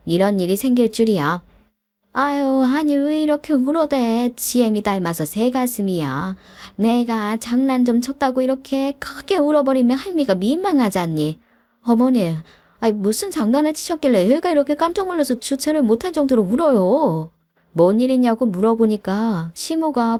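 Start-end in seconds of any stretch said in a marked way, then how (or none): 2.1-11.4 높은 톤으로 살짝 연기한 타박하는 시어머니; 우는 손주를 핀잔주는 할머니처럼 높게; 시어머니 목소리. Acted. 시모가 우는 아이를 타박함. 11.8-17.3 높고 빠르게 다급히 따지는 며느리; 깜짝 놀라 숨 가쁘게 빨리 묻는다. Acted. 며느리가 놀라 따져 물음.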